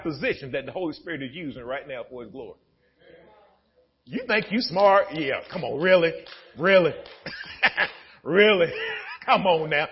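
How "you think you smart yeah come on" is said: usual speaking voice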